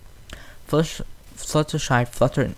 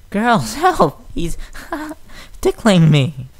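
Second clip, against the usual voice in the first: loud, high shout broken by laughter; laughing yell; 9 semitones higher, 5 dB louder, slower than usual. A narrator's reading. Filly being tickled by the robot, laughing yell. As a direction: yell for help through giggles. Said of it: "she yelled".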